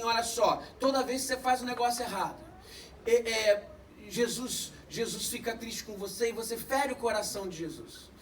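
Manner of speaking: lightly voiced old man teaching a lesson; gentle grandfather. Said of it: "E falou assim".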